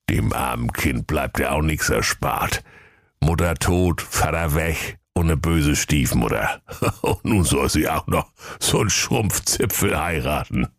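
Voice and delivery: lightly voiced ancient tortoise; pitying old tortoise. Tortoise pities the bride to be, old and wry. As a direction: lament it as a wry old creature.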